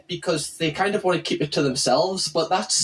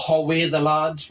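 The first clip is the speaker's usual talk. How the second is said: put-on slower, Geordie accent; 2 semitones lower than usual. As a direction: say it slowly like a Geordie. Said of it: "which is Geordie language".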